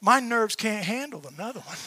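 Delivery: soft, slow, worn-out begging; weary plea. Retold or imitated. Hunter pleading with God to leave him alone, soft and slow. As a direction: plead to be left alone, tired out. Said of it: "I could imagine myself going".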